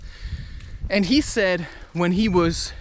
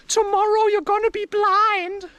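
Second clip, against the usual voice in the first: high, put-on taunting voice; high sing-out mock prophecy; voice in the head; 13 semitones higher than usual. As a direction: imitate an inner voice making a prediction, pitched way up. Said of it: "And then a voice comes and says".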